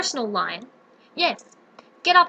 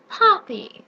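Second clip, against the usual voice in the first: gloating; 5 semitones higher than usual. Acted. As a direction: savour the word Poppies. Witch voices plan.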